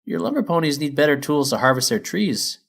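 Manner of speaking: high, loud, cheery; chipper miner mare. Acted. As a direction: bounce in like a keen foreman. Feldspar advises.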